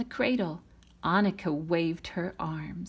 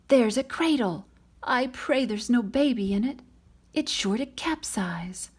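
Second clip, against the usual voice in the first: high, loud alarmed call; worried villagers; 6 semitones higher, 4 dB louder than usual. Acted. Villagers on the dike spot the cradle, alarmed shout.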